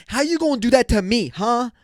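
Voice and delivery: high, loud, fast mock whine; mocking girl voice. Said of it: "the girls that talk like this".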